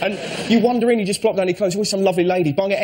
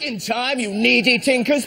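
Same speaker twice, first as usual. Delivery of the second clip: haughty lady voice; 5 semitones higher, slower than usual. Retold or imitated. Voicing shop lady.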